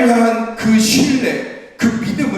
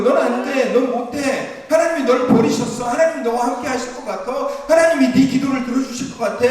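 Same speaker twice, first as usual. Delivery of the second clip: higher, lightly voiced mocking tempter; Satan's taunting voice; 6 semitones higher than usual. Preacher voicing Satan's whisper to believers, light mocking taunt. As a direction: taunt the listener like a sneering devil. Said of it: "사단의 소리예요".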